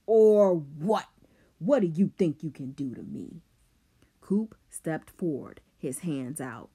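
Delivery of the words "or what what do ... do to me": screaming. Acted. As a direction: scream it in his face. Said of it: "Rob screamed now".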